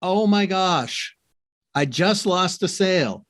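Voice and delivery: imitating a dismayed woman, slow and drawn out; dismayed caller. Retelling a consultant call's lost sale, dismayed. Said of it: "this gal came on and she goes".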